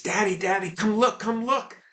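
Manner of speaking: put-on high, bubbly little boy voice; excited child. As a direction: burst with pride like a small boy. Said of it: "he's all excited".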